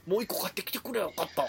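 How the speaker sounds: 食べながら喋る真似、控えめ; 頬張ったまま軽く言う; 口いっぱいで. Retold or imitated. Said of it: "そんな声ちゃうわ". (口に食べ物を入れたまま)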